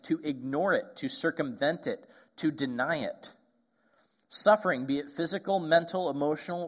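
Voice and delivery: measured reading of a meditation; reading aloud. Acted. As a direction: read the quote out with weight. Reads Nouwen meditation aloud.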